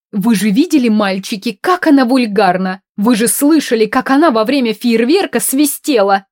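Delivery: loud, scandalised complaining; indignant rant. Acted. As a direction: rant like an offended aristocrat. Countess ranting indignantly.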